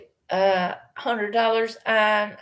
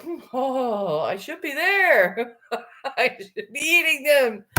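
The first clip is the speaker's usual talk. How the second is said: higher, giggling mock craving; laughing longing; 5 semitones higher than usual. Watching a friend bake brownies, longing through laughter. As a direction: tease yourself with the thought, laughing. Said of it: "things that are like".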